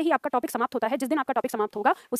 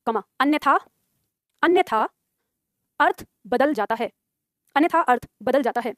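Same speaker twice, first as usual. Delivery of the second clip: dictation. Shown as a demonstration. Dictating a line for students to write.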